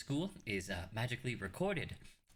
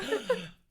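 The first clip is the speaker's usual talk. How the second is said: mock gasp; 7 dB louder than usual. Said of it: "I'm gonna be like".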